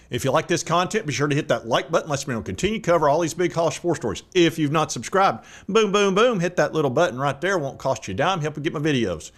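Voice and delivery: talking with a numb mouth after the dentist. Real, not acted. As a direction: speak through a mouth numb from anesthesia. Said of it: "It's not easy to talk when your mouth is numb".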